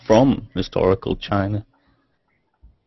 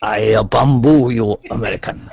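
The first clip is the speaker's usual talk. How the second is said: mock priest. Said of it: "imitating priest".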